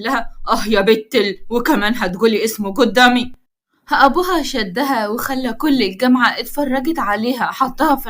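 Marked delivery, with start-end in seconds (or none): 0.5-3.3 annoyed. Acted. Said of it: "بضيق".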